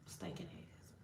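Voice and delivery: hissed whisper insult. Shown as a demonstration. Streamer demoing dirty talk to demons, whispered. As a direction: breathe the insult out unvoiced. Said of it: "talk so dirty to demons".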